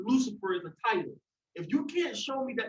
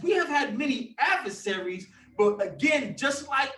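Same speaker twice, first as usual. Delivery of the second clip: getting worked up; 3 semitones higher than usual. Real, not acted. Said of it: "let me calm down, y'all".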